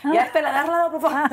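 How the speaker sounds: high, loud pleading through laughter; laughing mock plea. Woman mimicking crowded women's prayers, laughing plea. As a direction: beg Hashem half laughing, voice up high.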